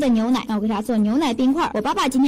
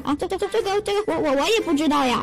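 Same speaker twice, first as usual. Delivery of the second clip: flustered stammer; 2 semitones higher than usual. Acted. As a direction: caught out and stumbling over words. Caught cheating, child stammers excuse. (心虚地结结巴巴)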